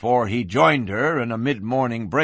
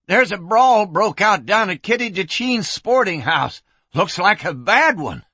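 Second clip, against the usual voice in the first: urgent report, pitched high; panted alarm; 7 semitones higher, 3 dB louder than usual. A narrator's reading. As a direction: deliver the news high and breathlessly urgent. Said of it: "he panted".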